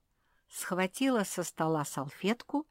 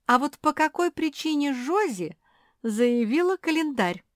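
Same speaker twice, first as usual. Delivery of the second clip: high, loud puzzled asking; can't believe that word; surprised question; 10 semitones higher, 7 dB louder than usual. A narrator's reading. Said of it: "пёс удивлённо переспрашивает".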